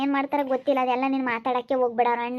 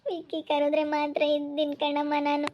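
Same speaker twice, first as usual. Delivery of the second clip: tearful; 3 dB quieter than usual. Acted. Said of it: "ಸುಮ್ಕಿರು, ಅಳ್ಬೇಡ".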